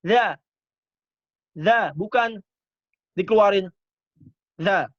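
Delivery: za said loud, tongue tip to upper teeth; Arabic letter za. Shown as a demonstration. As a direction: show the za sound clearly. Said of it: "Jadi begini ya". (za diucapkan dengan ujung lidah di gigi atas)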